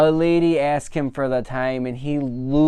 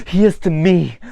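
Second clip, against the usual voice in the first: hammed-up Ken; 4 semitones higher, 8 dB louder than usual. Ken's earnest reply, quoted.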